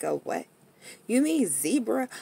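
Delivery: high, puzzled question; puzzled correction. Retold or imitated. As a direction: correct her, baffled. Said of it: "And they be like".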